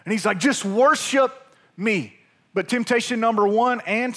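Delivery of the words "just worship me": mock-frustrated demand, voice pushed up; higher, exasperated outburst that drops off. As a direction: act out losing patience as the tempter. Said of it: "it's like he just gets frustrated".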